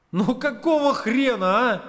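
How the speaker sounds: strained groan. A narrator's reading. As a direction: moan it out in dismay. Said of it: "простонал я".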